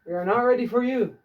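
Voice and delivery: slow and clear, stress on ready; careful slow classroom repeat; slow repeat for class. Shown as a demonstration. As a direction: read it back slowly for note-taking. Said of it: "teacher repeats sentence for class".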